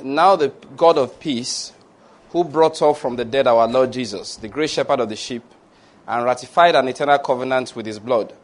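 measured, solemn benediction; deliberate prayer cadence; pastoral prayer. Real, not acted. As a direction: pronounce a scripture blessing in even phrases. Prays a benediction over congregation.

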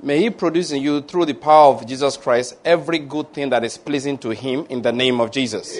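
measured, solemn benediction; deliberate prayer cadence; pastoral prayer. Real, not acted. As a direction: pronounce a scripture blessing in even phrases. Continues benediction.

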